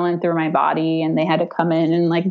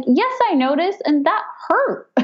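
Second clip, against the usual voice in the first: short with her; 11 semitones higher than usual. Retold or imitated. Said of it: "kind of short with her".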